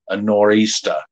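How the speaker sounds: attempted Boston accent, "nor'easter" ending in "-stah"; put-on Boston accent. Shown as a demonstration. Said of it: "In a Boston accent".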